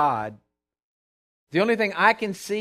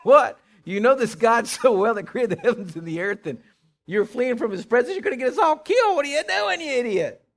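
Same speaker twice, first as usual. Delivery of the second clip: acted alarmed outburst, jumping higher as it builds; freaking out; 4 semitones higher, 3 dB louder than usual. Sailors confronting the man who fled God, freaking out. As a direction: start on a loud "What?", climb into high, hurried scolding. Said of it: "like, freaking out? They're saying".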